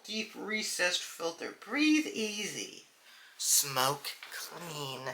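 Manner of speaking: soft, slow mock ad slogan; mocking slogan repeat. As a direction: savour the slogan as a joke. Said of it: "That is such a funny joke".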